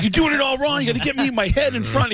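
high-pitched imitated complaint; mock exasperation. Young fan scolding his friend over bad photos, mock exasperated. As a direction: act out fussing at a useless helper.

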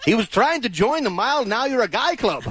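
put-on laughing through a Scottish accent; Scottish brogue, breaking into giggles. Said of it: "The accent makes it so".

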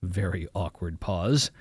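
usual speaking voice

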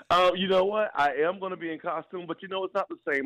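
high eerie ghostly voice; spooky voice. Pretend. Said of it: "you probably could do a spooky voice".

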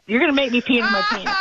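quick, high, laughing protest; helpless laughter. Real, not acted. Caller cracking up at the host's old-age joke, helplessly laughing. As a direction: beg them to stop through real laughter.

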